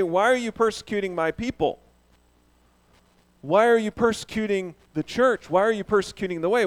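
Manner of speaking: mock the wrong versions; emphatic alternatives; stress on the endings. Shown as a demonstration. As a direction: raise the last words people, church, way. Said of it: "Jesus doesn't say".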